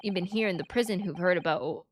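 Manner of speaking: grumbling makeshift Scot; uncertain Scottish accent. Acted. Game character telling laddie to give up, Scottish accent. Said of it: "I have no idea what that accent is".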